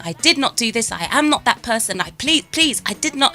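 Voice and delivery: pleading. Retold or imitated. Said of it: "you plead and you surrender by saying".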